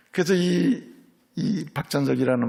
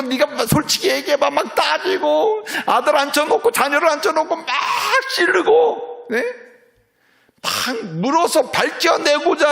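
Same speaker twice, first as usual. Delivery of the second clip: high, loud fervent sermon; preaching at full force; 12 semitones higher, 5 dB louder than usual. Acted. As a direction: drive it home to the congregation. (힘있게 외치는 설교)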